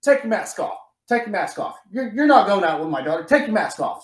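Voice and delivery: hammed-up father ordering masks off; dad barking at the daughter's dates, mock angry. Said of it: "he is like".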